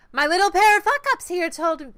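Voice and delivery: high, loud crime-boss voice; a rough first take at the boss's voice; first try at Kindly. Acted. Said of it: "figure out ... how Kindly's voice is".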